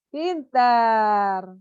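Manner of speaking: teacher praising the seated pupil; praise. Shown as a demonstration. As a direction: reward the child warmly. Praising child after sitting.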